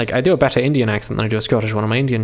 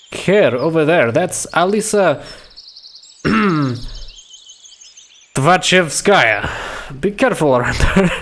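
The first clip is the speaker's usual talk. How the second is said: slow, higher, voiced character warning; full-voiced warning; 4 semitones higher, slower than usual. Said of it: "he spoke in whisper".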